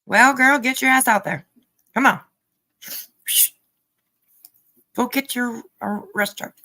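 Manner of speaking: loud mocking taunt; egging her on. Real, not acted.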